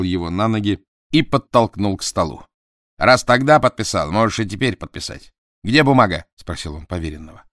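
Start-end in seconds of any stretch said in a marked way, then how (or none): 3.0-6.3 loud, forceful bullying; rough demand. Acted. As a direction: demand it bluntly. Dot forces the signing.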